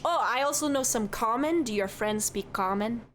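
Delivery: lightly voiced chatty Midwestern barkeep; cheerful innkeeper who says don't you know; folksy bartender. Minnesota-ish bartender voice.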